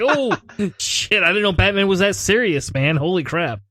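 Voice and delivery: laughing mock shock; mock surprise. Dad reacting to unamused little son, mock surprise.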